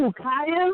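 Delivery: high, stunned, shocked disbelief. Asking about the person being discussed, sounding totally shocked. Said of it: "why do you sound like you are just in total shock".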